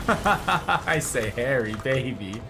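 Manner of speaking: slow, silly flirty tease; teasing drawl. Pretend. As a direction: stretch it out playfully.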